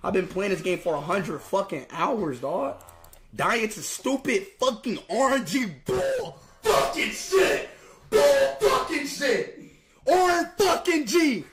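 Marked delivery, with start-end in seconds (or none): 3.3-11.4 rising angry yell, slowing on the last words; furious rant. Real, not acted. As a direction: spit out the curse in real rage. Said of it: "but I'm fucking pissed".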